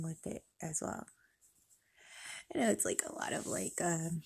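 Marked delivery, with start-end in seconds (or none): 2.5-4.2 stiff-faced talking; clay mask on face. Real, not acted. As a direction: speak through a drying face mask. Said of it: "I'm talking funny because I really do have a mask on my".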